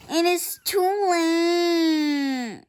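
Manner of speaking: slow, hammed-up tragic line. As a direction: draw it out like a tragedy. Gerald's dramatic farewell.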